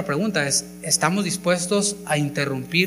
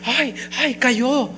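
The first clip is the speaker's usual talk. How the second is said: high hammed-up panicked cry; mock the alarmed churchgoer, high and shrill-free; 8 semitones higher, much slower than usual. Preacher mocks a panicking churchgoer, hammed-up high alarm. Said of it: "o de alarmarse".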